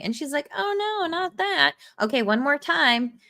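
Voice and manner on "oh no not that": mock dismay. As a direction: play the worried nurse in a high voice. Voicing the blackmailed nurse's plea.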